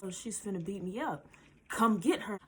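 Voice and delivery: a hint of whiny crybaby; lightly fake-whimpering plea. Calling the boyfriend for help, mild crybaby voice. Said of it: "my crybaby voice".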